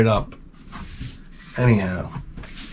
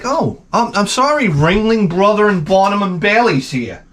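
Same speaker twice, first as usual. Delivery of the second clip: higher sarcastic mock apology; 6 semitones higher than usual. Husband mocking wife's carnival logic, sarcastic and higher. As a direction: sneer it as a fake apology. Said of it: "I'm like".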